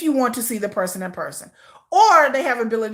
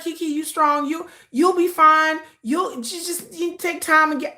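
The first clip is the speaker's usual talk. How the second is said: mock consoling friends; 5 semitones higher than usual. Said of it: "I heard".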